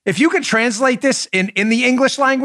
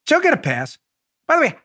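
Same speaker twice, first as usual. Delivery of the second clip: ordinary delivery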